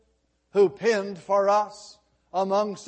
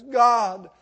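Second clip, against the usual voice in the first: mildly raised, pleading preacher's cry; retold crying out. Preacher quotes weeping David before God, in a pleading cry. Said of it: "he cries out and he says".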